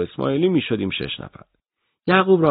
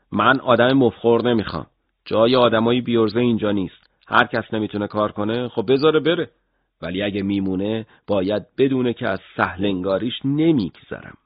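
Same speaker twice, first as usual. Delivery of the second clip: stern boss; 3 semitones higher than usual. Retold or imitated. Narrator imitating his harsh boss Vakili, mildly stern. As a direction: lay down the law.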